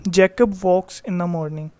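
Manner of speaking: slow, careful read-aloud of the example; teacher dictating an example. Shown as a demonstration. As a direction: read the sentence out slowly for the class. Teacher reads example slowly.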